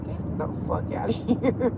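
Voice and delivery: breathy laugh through the words. Retold or imitated. Laughing while quoting himself.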